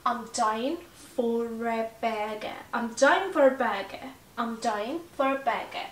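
"for a burger" with R sounded before "a", slow; linking R. Shown as a demonstration. Explaining British linking R to students, slow demo. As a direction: sound the R in "for" because "a" follows. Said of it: "چون بعدش A اومده".

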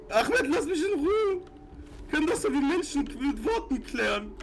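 laughing panic. Real, not acted. Chased, pleading with killer.

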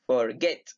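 "Forget" stressed on the final GET. Shown as a demonstration. Teacher repeating the example for students, stress on GET. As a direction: land on the second syllable, forGET. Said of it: "Get, en la segunda sílaba".

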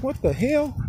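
a stunned yelp at the sight; shocked what the hell. Retold or imitated. Finding his chained-up, busted pups, shocked outcry. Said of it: "I'm like".

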